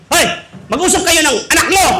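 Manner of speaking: mock irritated wife; bossy mother. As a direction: nag him to deal with the kid. Angry mother tells father.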